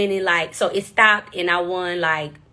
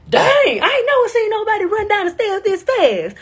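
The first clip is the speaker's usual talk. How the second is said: Steve Harvey voice; 12 semitones higher, 3 dB louder than usual. Retold or imitated. Steve Harvey quoted in story.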